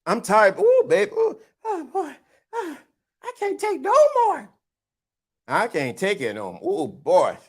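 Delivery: high falsetto whimpers, out of breath; mock winded woman. Mocking a worn-out girlfriend with high whimpers.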